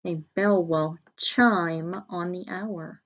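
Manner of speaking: slow, clear example sentence; slow model sentence. Shown as a demonstration. Teacher modelling the sentence slowly for the class. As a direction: say it slowly so they can hear it. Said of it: "And number six".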